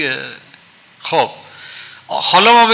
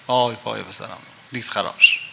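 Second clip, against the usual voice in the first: mother's heart lamenting; 3 semitones lower than usual. Retold or imitated. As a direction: let the dead mother's heart sigh out its grief. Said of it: "کبد صدا در میاد که".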